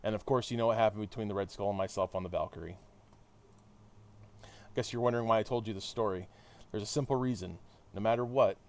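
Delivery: measured read-aloud of a hero's debrief; story narration. Acted. Hero recounting the London mission to listeners, narrated. Reads game dialogue aloud.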